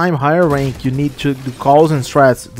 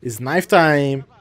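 slow drawn out; slower than usual. Pretend. Hyping knife round.

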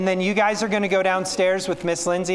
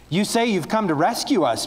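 a mild jeering call, a bit higher; mocking shout; 5 semitones higher than usual. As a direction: taunt him from the crowd, half-shouted. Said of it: "people shouted".

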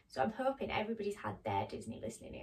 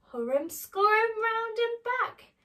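high, loud scurrying chant; excited refrain; 10 semitones higher, 9 dB louder than usual. A narrator's reading. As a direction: chant it like a frantic little scamper.

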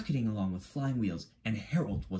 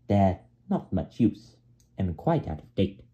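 mildly sneering; 4 dB louder than usual. Acted. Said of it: "said Harold".

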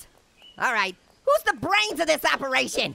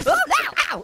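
alarmed yelp; 5 semitones higher, 4 dB louder than usual. Real, not acted. Character getting chopped in game.

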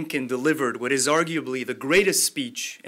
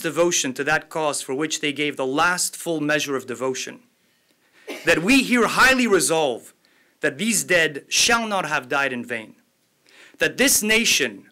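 solemn oratory; 4 dB louder than usual. Acted. Host reciting the Gettysburg Address to the audience, solemn louder oration. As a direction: proclaim it to the hall like a statesman. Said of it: "pardon my slight accent as I read".

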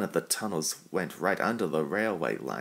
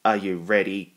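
much louder call across the site; 7 dB louder than usual. A narrator's reading. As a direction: call out to the engines. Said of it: "called the fat controller".

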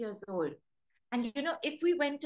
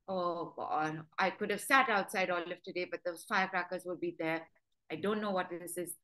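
grumbling complaint; 5 semitones lower than usual. Retold or imitated. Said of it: "So she'll be like".

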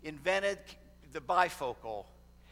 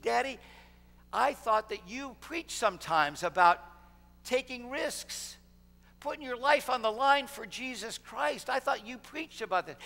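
imitated daughter, higher-pitched pointed challenge; challenging daughter; 6 semitones higher than usual. Daughter calls out her preacher father on his words, pointed challenge. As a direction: voice a daughter's mild protest, pitched up.

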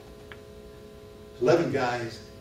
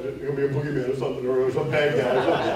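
spooked build-up; 5 semitones higher, 13 dB louder than usual. Retold or imitated. Imagining a boogeyman behind elevator doors.

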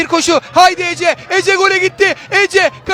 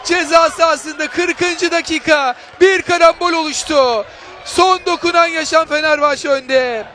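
excited commentator; 4 semitones higher than usual. Real, not acted. After the goal, still elated.

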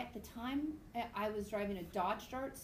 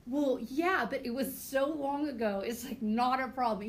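slightly louder, nervous over-explaining; a mild mock of nervous rambling; 5 dB louder than usual. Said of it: "And now I'm nervous".

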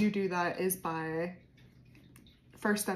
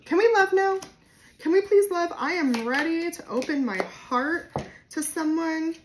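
higher, louder, pleading to love; eager feminine voice; 7 semitones higher, 6 dB louder than usual. Pretend. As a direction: beg to open up, bright and eager. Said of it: "your feminine energy is just like".

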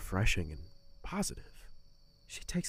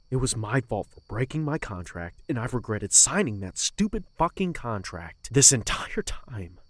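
louder, spitting out the curse; bitter outburst; 6 dB louder than usual. Acted. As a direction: rage at his own mistake. Bitter outburst about his contract.

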